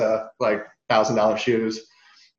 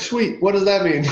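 high, baffled "Sweet"; mock puzzlement; 7 semitones higher than usual. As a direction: fake enthusiasm, then real confusion. His own puzzled reply, retold.

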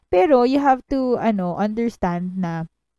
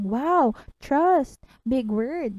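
reciting movie line; 4 semitones higher than usual. Retold or imitated. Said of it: "memorize ko din yung mga linyang yun".

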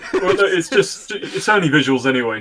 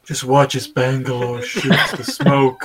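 ASMR voice; slower than usual. Pretend. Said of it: "my special A S M R voice".

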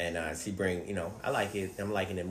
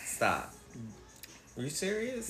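disbelief; 3 semitones higher, 6 dB quieter than usual. Real, not acted. Hearing people marry mannequins.

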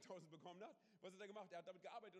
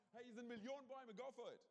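much higher, louder, big-hearted exclamation; generous God; 7 semitones higher, 6 dB louder than usual. Retold or imitated. God offers all the trees to Adam and Eve, high and generous. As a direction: throw the offer wide open, delighted. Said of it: "Das zeigt seine Großzügigkeit".

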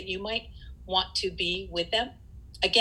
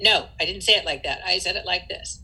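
mild aggressive retort; 4 dB louder than usual. Retold or imitated. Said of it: "If the person is aggressive when they're saying it".

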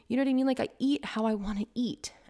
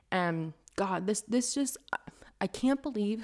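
breathy disbelieving whisper under her breath; exasperated whisper. Real, not acted. Vlogger whispering her exasperation at food shamers. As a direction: whisper it like you can't believe it's still happening. Exasperated aside mid-rant.

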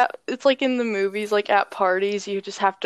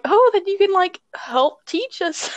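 higher bright teacher voice; 8 semitones higher than usual. Retold or imitated. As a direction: play the cheerful teacher. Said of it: "our teacher was like".

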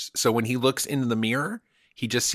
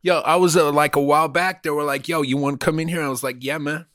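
hammed-up Scarface-style Cuban accent, a bit higher; mock Cuban accent; 5 semitones higher, 4 dB louder than usual. Comedian bragging to cohost about being inside Hollywood, in a mock Cuban accent. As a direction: play a fake Hollywood Cuban tough guy in a Cuban accent. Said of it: "I was using an accent".

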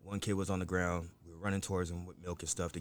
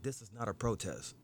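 retold yelling at teens; 4 semitones higher than usual. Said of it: "I'm still yelling".

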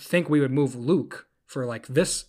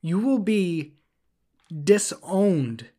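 mock serious threat; 4 semitones higher, 4 dB louder than usual. Real, not acted. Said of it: "I'm serious for a second".

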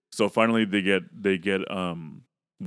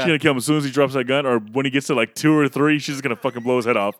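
higher, louder, fast excited rush; 4 semitones higher, 4 dB louder than usual. Real, not acted. Friend recalling the scene, talking higher, louder and fast with excitement. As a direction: gush with anticipation. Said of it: "I was like".

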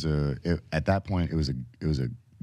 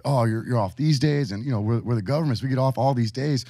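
higher, hyped-up recruiter sell; mocking the recruiter; 6 semitones higher than usual. Mimicking the recruiter listing holidays off. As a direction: play the eager salesman pitch. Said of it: "You know, like".

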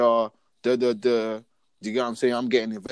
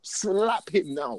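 slow, high-pitched acted order; drawn-out command; 8 semitones higher, much slower than usual. Parent repeating the order to their child, slow command. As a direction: stretch out each word of the order, pitched up.

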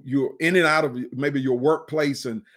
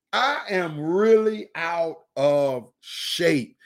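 winded lament; much slower than usual. Retold or imitated. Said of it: "we say".

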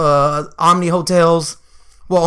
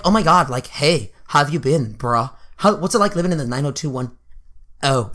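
mock white girl; 4 semitones lower, 4 dB quieter than usual. Junior teasing cousin from white school, mock white girl. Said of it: "she acts really white".

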